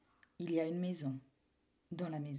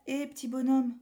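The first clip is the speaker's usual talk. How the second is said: miller voice; 4 semitones higher, 5 dB louder than usual. Acted. Miller answers boy.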